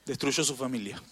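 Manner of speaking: ordinary talk, nothing marked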